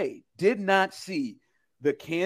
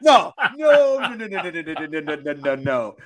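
rapid string of loud noes; loud emphatic no; 5 dB louder than usual. Real, not acted. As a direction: shout them down with noes.

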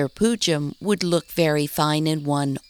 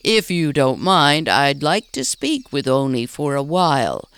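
a little louder, calling across to her; raised voice; 2 semitones lower, 4 dB louder than usual. Acted. Mayor calls to distracted Maggie, voice raised. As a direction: call over to her, politely. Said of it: "he raised his voice".

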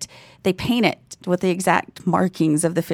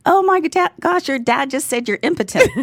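friend laughing excitedly; 9 semitones higher, 3 dB louder than usual. Retold or imitated. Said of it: "she came running and laughing".

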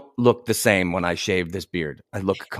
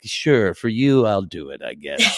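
faked reluctance; 3 semitones lower, slower than usual. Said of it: "I think I faked it and was like".

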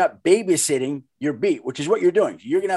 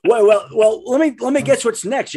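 arch knowing insinuation; 7 semitones higher, 5 dB louder than usual. Real, not acted. Teasing host, louder, higher.

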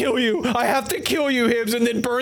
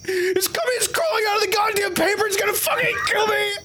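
terrified screaming; 6 semitones higher than usual. Acted. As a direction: scream it like the thing is crawling at you. Screaming in terror at photo.

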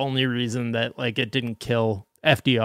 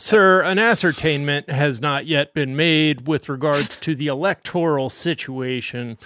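a hint of a pompous security guard; self-important mall cop; 2 semitones higher than usual. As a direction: puff it up like a mall guard playing official. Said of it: "if you say it like a mall security guard trying to sound official".

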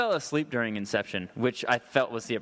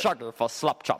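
mock reggae-star pitchman voice; lightly voiced reggae singer, announcing himself; impression of a singer. Comic answering the host's slap chop request, impression of a singer. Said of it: "How would a singer sell a slap chop".

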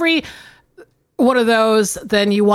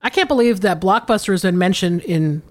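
lightly performed letter reading; a hint of storyteller voice; email read aloud. Reads listener email aloud.

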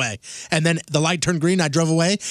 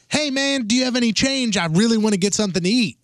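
imitated panhandler; 6 semitones higher than usual. Retold panhandler asking for change.

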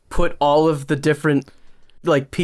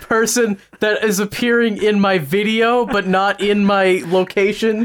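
bad acting; 6 semitones higher than usual. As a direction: deliver it like a wooden amateur actor. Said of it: "and it's like".

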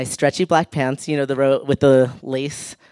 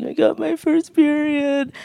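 small high voice, slow and hesitant; a shy kid's slow, high little voice; timid confession; 12 semitones higher than usual. Retold or imitated. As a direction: say it up high and slowly, almost scared to admit it.

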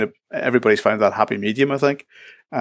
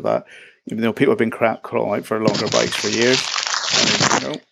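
talking through a mouthful of crisps; eating crisps. Real, not acted. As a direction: crunch crisps while speaking. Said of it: "sorry, you eating crisps there".

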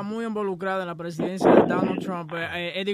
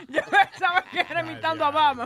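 laughing; 6 semitones higher, 3 dB louder than usual. Real, not acted. Says it while laughing.

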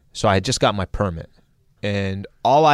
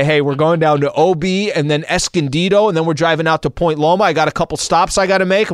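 breezy dad voice; 7 semitones higher, 4 dB louder than usual. Retold or imitated.

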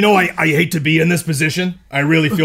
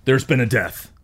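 hotel security officer. Acted. Player voices hotel security Consuela.

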